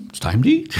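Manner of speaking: happily announcing dinner; cheerful. Retold or imitated. Priest recalling telling his friend dinner's here, cheerful. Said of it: "I was like".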